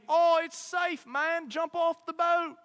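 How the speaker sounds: high, slow put-on Australian accent; playing an Aussie guide, way up high; mock Australian accent. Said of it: "That's probably not how they talk".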